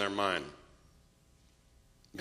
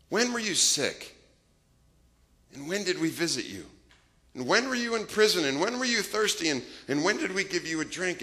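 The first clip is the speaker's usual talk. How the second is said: puzzled asking; 6 semitones higher than usual. Acted. The righteous ask the Lord.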